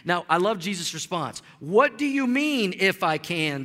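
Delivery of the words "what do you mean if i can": mock incredulous. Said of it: "Jesus asked".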